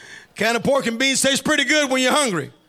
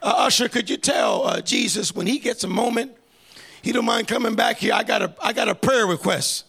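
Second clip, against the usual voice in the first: politely sophisticated; 2 semitones lower than usual. Acted. Woman casually asking an usher for Jesus, mock-polite. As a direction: ask timidly, like not wanting to bother anyone. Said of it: "she didn't come sophisticated".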